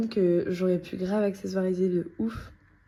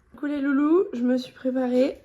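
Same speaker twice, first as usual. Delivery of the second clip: bright, louder hello to viewers; excited greeting; 3 semitones higher, 5 dB louder than usual. Real, not acted. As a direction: greet them with a burst of excitement.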